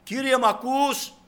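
high, pleading call to Jesus; crying out to God. Acted. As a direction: call upward as if asking to be heard. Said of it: "κράζεις".

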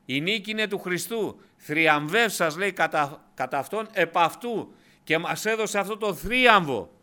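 αργά, δυνατά, με πάθος; ανάγνωση σαν κραυγή πίστης; δυνατό κήρυγμα. Acted. Preacher at full force. (κήρυγμα με έξαρση, πιο δυνατά)

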